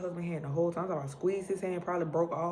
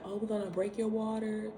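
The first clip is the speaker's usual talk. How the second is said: chirpy doctor; 5 semitones higher than usual. Retold or imitated. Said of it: "And so they like".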